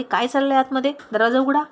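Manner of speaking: high, loud demand at the door; police yelling to open up; angry police shout. A narrator's reading. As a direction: shout through the shutter.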